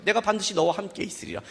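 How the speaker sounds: same words, dropped to a hush. Shown as a demonstration. Pastor repeating God's promise softly to the congregation. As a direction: let it settle quietly this time. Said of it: "그래요".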